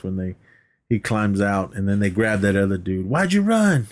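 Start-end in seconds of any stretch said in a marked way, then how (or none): 3.1-3.9 mock high interrogation. Acted cop interrogation.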